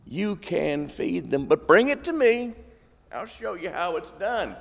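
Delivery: a patient teacher running out of patience; frustrated Jesus. Retold or imitated. Jesus answers the disciples' fish count: mildly exasperated. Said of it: "you can almost hear the frustration in his voice".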